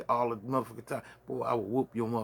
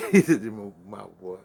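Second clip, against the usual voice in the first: laughing; 3 semitones lower, 6 dB louder than usual. Real, not acted. Laughing through repeated insult.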